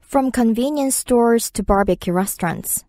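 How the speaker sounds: slow, careful English read; slow demo read; slow chunk read. Shown as a demonstration. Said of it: "repeats sentence in chunks".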